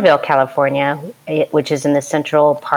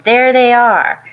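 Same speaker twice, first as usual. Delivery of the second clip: higher, slow, drawn-out call; retold yell; 8 semitones higher, 4 dB louder, slower than usual. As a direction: re-enact a yell to alert the others, stretching the words. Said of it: "I yelled".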